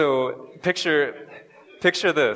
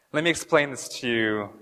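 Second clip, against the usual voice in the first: laughing. Real, not acted.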